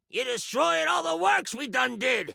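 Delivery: high, put-on folksy character voice; groaning trowel. Talking trowel complains to the hero about ruined works, groaning. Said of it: "The trowel groans".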